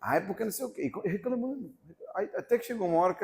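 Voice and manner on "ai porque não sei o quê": complaining sister. Retold or imitated. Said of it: "a irmã começou a reclamar".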